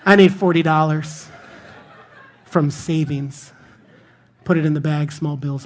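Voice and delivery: chuckling between the words; can't keep a straight face; laughing through it. Real, not acted. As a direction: pastor cracks himself up telling the bank joke, laughing. Joking holdup, laughter.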